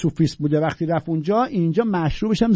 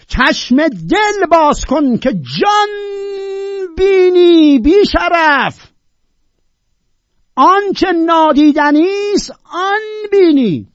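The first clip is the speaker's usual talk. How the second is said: high, very loud, slow, crying; tearful shouted verse; 6 dB louder than usual. Shown as a demonstration. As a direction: cry the poem out, stretching the words. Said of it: "باید داد زد اینا رو خوند".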